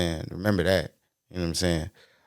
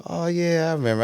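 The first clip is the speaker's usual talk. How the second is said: dad voice; 11 semitones higher than usual. Retold or imitated. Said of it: "He's like".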